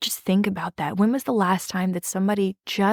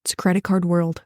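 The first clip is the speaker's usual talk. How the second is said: simple, plain truth; faster than usual. Shown as a demonstration. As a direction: lay out the truth without any push. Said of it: "Nothing added extra, just the truth".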